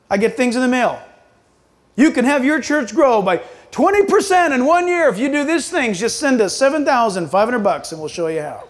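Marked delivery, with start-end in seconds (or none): 2.0-8.6 lively, lightly voiced huckster; mock sales pitch. Preacher mocking church growth mailings, in a sales pitch. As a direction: sell it like a mail-order offer.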